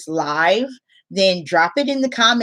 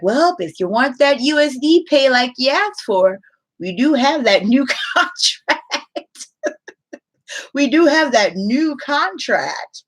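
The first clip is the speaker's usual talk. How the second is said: pitched-up, mock-obliging company voice; mock company reply; 6 semitones higher than usual. Company answering teachers who wanted USD pay, mock-obliging. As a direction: lightly imitate a company reminding people.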